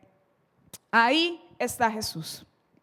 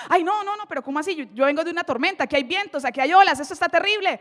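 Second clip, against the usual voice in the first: fretful, swooping protest; acted panic; faster than usual. Peter suddenly remembering the storm, acted panic. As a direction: play a man losing his nerve.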